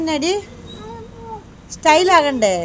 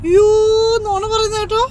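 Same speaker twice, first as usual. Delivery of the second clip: playfully scandalized parent, pitched way up; teasing shock; 9 semitones higher than usual. Real, not acted. Parent teasingly calls out child's fib.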